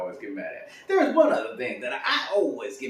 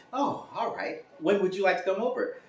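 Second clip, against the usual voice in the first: lightly put-on agent, higher pitched; polite leasing agent; 6 semitones higher than usual. Agent booking a viewing, polite. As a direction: play the obliging agent, high and courteous.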